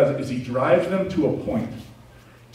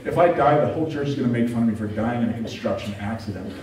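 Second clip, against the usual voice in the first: mock panicked prayer; 2 semitones higher than usual. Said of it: "I'm basically crying behind this wheel".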